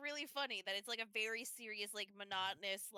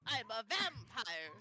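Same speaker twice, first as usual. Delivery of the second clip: cartoony Dracula voice; slower than usual. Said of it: "you're doing the cartoony one".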